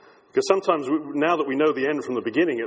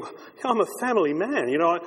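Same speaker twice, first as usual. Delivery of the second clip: a lightly voiced worried family man, talking himself out of it; mild nervous inner voice of a follower getting cold feet; a hint of a frightened disciple musing to himself; anxious disciple; 3 semitones higher than usual. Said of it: "imagine one of them thinking".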